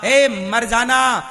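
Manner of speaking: lightly voiced Brahmin teacher. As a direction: stretch the words into a solemn charge. Voicing the Brahmin teacher's exhortation.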